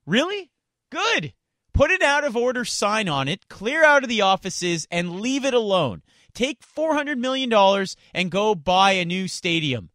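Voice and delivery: sarcastic rant. Real, not acted. Radio host scolding stadium officials, sarcastic and loud. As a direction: bite back at the excuse with scorn.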